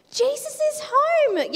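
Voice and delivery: high, loud, slow excited call; excited yell. Acted. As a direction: shout the news to your friends. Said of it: "yelled his friends".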